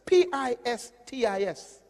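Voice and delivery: P I S T I S spelled letter by letter. Shown as a demonstration. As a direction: spell PISTIS one letter at a time. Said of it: "It's the word pistis".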